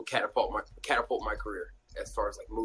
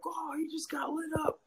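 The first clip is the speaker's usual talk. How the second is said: mock jeering. Opponents jeering from the sideline.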